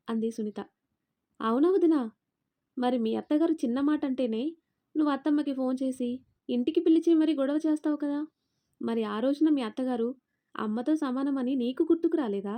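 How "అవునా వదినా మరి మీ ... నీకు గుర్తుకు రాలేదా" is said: pointed challenge. Acted. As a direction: throw the question straight back at her. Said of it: "సూటిగా అడిగింది". (సూటిగా, గట్టిగా నిలదీస్తూ)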